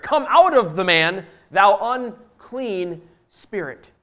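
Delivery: loud order that slows to spaced-out words; commanding. Acted. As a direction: command it firmly, drawing out the last phrase. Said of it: "he had already commanded the spirit".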